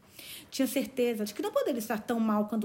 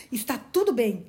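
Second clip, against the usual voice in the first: louder, triumphant; jubilant announcement; 6 dB louder than usual. Acted. Uncle Benjamin announcing the news, jubilant. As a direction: announce it with glee. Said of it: "anunciou ele jubiloso".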